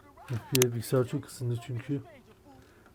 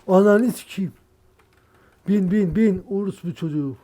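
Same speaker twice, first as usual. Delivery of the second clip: loud, higher curse after a gasp; furious outburst; 6 semitones higher, 8 dB louder than usual. Real, not acted. Gamer cursing as the game fails, furious outburst. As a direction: explode at the screen.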